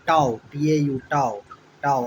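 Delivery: "टाओ" sounded as a full, open TAU; syllable drill. Shown as a demonstration. Teacher drilling the middle syllable of restaurant, emphatic pronunciation. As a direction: spell out, then repeat "टाओ" as TAU. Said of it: "और तब याद रखिए".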